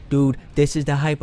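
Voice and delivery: loud excited exclamation; retold hype. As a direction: build the hype at the big moment. Retells the climax, heart racing.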